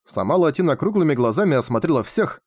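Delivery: ordinary delivery, nothing marked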